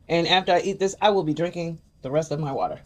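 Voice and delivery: talking while chewing; words around a mouthful; mouth full. Real, not acted. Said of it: "excuse me for talking with my mouth full".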